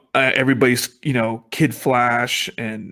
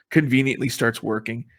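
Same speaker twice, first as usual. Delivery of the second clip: chuckling scorn at a convenient twist; laughing sarcastically. Real, not acted. To cohost, mocking the convenient plot, laughing.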